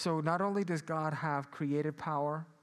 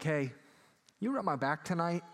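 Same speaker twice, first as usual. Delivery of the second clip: higher and louder, a pleading request to the spouse; asking spouse for a back rub; 5 semitones higher, 5 dB louder than usual. Retold or imitated. Spouse begging partner for a back rub, mock plea.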